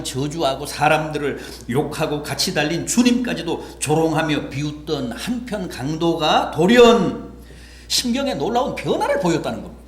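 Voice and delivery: building sermon delivery, rising in pitch; rousing preaching. Acted. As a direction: preach toward a dramatic climax.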